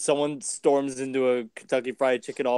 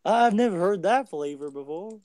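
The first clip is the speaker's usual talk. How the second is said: puzzled clerk; 5 semitones higher than usual. Pretend. Clerk to customer asking for Transformers, cluelessly puzzled. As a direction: sound out the odd word in high bafflement.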